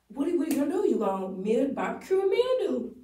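high, playful warm-up drill; vocal warm-up. Shown as a demonstration. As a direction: loosen the mouth with silly phrases. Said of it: "vocal warm-up tongue twister".

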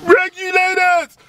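high, loud, stretched shout of the word; mock call-out. Hyping up his friend, a stretched loud mock call. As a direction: belt it out like a hype call. Calling out the Regulators.

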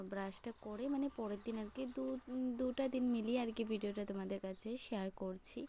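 talking through a toothbrush; while brushing teeth. Real, not acted. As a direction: mouth full of toothpaste foam. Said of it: "এখন দেখো একদমই আমি brush করছি".

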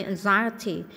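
"anxiety" stressed on the second syllable. Shown as a demonstration. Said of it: "nhân âm hai". (nhấn âm hai "anxiety")

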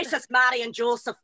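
Irish stock phrase in a put-on accent. Shown as a demonstration. Repeating a learned phrase for a friend, Irish accent. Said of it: "I like your, um, Jesus, Joseph, and Mary".

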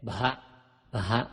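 "บะฮะ" run together as bha; aspirated Pali consonant. Shown as a demonstration. Teacher demonstrates Pali letters to readers, h-blended "บะฮะ". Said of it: "ออกเสียงพอสำเภากล้ำหอหีบเป็น".

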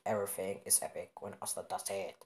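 lightly altered storyteller voice; put-on voice. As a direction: put on an odd voice, a touch low. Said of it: "I don't know why he made this voice".

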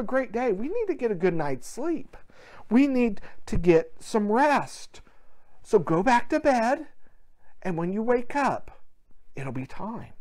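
lightly voiced dad, softly soothing a child; understanding father. Father sending his excited boy back to bed, mildly understanding. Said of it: "The father, understanding the little boy's excitement".

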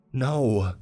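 put-on high, loud child's scream. A narrator's reading. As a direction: refuse him with a shriek. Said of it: "Callie screamed".

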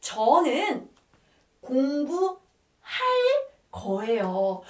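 teacher spelling out "저는 공부할 거예요" in stretched pieces; word-by-word demonstration. Shown as a demonstration. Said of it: "how can you say that".

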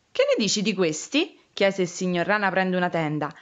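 put-on lively storytelling for small children; story narration. Reading a picture book about frogs and a lost hat, storytelling voice. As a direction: read the tale expressively, giving each figure a lift.

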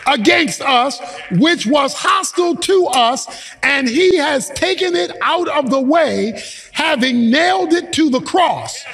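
emphatic scripture preaching, phrase by phrase; fervent preacher expounding a verse; forceful preaching. Real, not acted. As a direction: drive each point home to the congregation.

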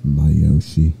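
Princess Peach. Pretend. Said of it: "I'm Princess Peach".

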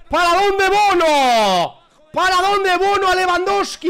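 high, loud disbelieving question, slowly; astonished. Real, not acted. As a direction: ask it in total disbelief. Keeper's save astonishes him.

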